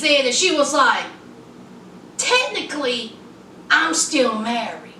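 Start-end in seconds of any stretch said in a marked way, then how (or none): 2.2-4.9 low, halting retold admission; careful confession. Woman confessing to her boyfriend, carefully measured. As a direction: leave a pause after "Technically", then lower.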